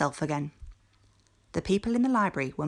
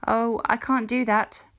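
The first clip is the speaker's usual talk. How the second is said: lento, alto y ahogado; suéltalo con un jadeo angustiado; gasped; 7 semitones higher, 4 dB louder than usual. A narrator's reading. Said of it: "gasped the unhappy".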